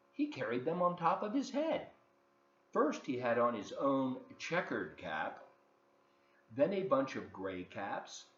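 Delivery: put-on lively read-aloud for children; story narration. A narrator's reading. Host reading a picture book to kids, lively storytelling.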